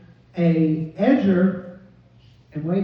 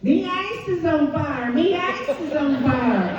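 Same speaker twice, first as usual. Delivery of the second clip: higher mock panic, mumbled; panicked husband; 7 semitones higher than usual. Husband running in about the mower, higher mock panic. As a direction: blurt it out in a panic.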